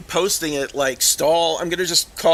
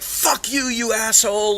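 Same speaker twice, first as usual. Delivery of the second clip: high-pitched mock outburst; retold angry insult; 6 semitones higher than usual. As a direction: mimic his indignant cursing, pitched well up. Acts out Stahl's angry insult.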